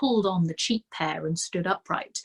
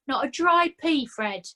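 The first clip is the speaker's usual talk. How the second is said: higher, aggrieved little man's whine; self-pitying complaint; whining Nobby; 8 semitones higher than usual. A narrator's reading. Nobby complaining to Fred about his bad luck, whining.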